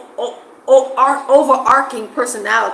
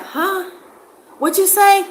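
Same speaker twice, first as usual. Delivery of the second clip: higher mock puzzled huh, asking them to repeat; mock confusion, pitched higher; straining to hear; 10 semitones higher than usual. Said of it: "you gotta be like".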